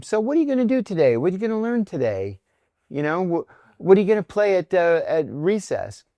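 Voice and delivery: retold sing-song questions for a child; talking to child.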